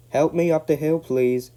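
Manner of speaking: out of breath; panting. A narrator's reading. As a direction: pant it out from effort. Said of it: "panted James".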